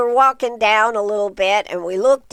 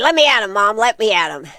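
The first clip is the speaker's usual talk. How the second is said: acted eager, excited tone. Telling a story about the garden, the speaker quotes a companion, imitating excited eagerness. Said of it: "she got all excited and was like".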